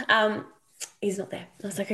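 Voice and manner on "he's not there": monotone voice. Shown as a demonstration. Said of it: "when I say a monotone voice".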